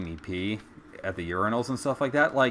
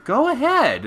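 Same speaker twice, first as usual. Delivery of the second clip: dismissive dare; 14 semitones higher, 7 dB louder than usual. Retold or imitated. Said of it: "and I said".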